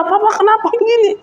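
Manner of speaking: high, shrill-free mock scolding of her husband; imitating a wife fussing over the dented car; wife complaining to husband about the wrecked car; angry wife. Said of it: "Istrinya marah-marah".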